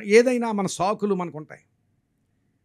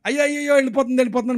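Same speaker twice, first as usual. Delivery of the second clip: mild mock wail, pitched up; retold cry of alarm; 4 semitones higher, 4 dB louder, faster than usual. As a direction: imitate a husband calling out in alarm. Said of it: "మళ్ళీ అరుస్తున్నాడు".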